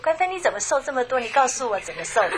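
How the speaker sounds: bright, giggly imitated question; cheerful sister. Sister cheerfully asking how she lost weight, giggling. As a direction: mimic a delighted friend asking her secret. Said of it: "很开心的跟我说".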